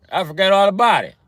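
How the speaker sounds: high, showy Italian-American voice; hammed-up Italian neighborhood guy; Italian accent. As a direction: lay on the Italian wiseguy accent. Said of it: "The Italian accent".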